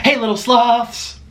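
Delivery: cooing to pets. Real, not acted.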